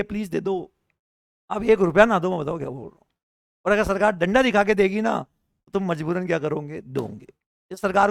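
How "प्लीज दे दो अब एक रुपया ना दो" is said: mock gentle request. Teacher imitating the government nicely asking citizens for money, mildly pleading. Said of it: "अगर प्यार से बोलेंगे ना, request करेंगे".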